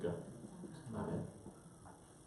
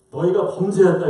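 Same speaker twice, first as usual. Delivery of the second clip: imitating an angry accusation, louder and higher; angry God; 4 semitones higher, 6 dB louder than usual. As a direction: pronounce the charge as an angered God. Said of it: "하나님이 화가 나서". (화난 하나님의 꾸짖음 흉내)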